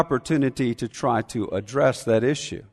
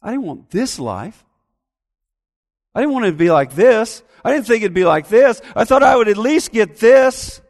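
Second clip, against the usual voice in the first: building from plain to higher, louder sulking whine; self-pitying whine; 4 semitones higher, 4 dB louder than usual. Retold or imitated. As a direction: complain about your life, getting more petulant. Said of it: "That's often the way we are".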